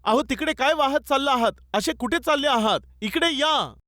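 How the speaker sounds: half-shouted wifely plea; wife calling out. Retold or imitated. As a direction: imitate a worried wife calling her husband back, without real shouting. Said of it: "त्याची पत्नी जोराने ओरडू लागली".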